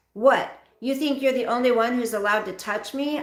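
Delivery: loud, high outburst. Acted. Daughter finally snapping at her abusive father, loud. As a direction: snap back hard. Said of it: "my voice loud".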